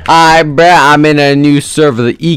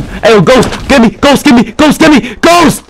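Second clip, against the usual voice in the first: higher and higher calls to a teammate, growing more urgent; calling for help; 12 semitones higher than usual. Real, not acted. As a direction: keep calling him, more desperate each time.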